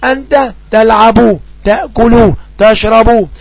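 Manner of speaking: very slow, clear dictation; slow example. Shown as a demonstration. Teacher reading an example sentence to students, slowly. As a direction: draw out each word for the class. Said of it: "أقول".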